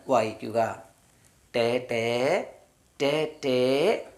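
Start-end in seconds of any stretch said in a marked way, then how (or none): 1.5-2.5 ടേ, ടേ stretched out very slowly; teacher modelling ടേ, ടേ slowly; very slow sound demo. Shown as a demonstration. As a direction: draw out ടേ, ടേ syllable by syllable. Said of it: "ടി ഇ ആണ് വരുന്നതെങ്കിൽ".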